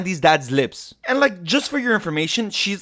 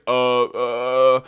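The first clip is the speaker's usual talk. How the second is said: low, drawn-out mock hesitation; low stalling "uh"; stumped stammer; 5 semitones lower than usual. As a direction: imitate being lost for an answer, voice dropped. Acted stumped reply to question.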